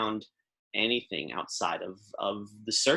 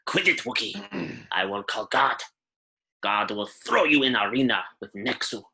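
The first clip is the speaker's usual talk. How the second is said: lightly voiced old lady calling from the back; a hint of a cranky old shopkeeper shouting; old shopkeeper yelling. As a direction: threaten the Wookiee from far off. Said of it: "you hear some incredibly loud squawking".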